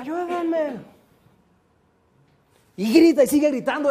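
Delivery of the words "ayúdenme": echo. Retold or imitated. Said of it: "va a escuchar".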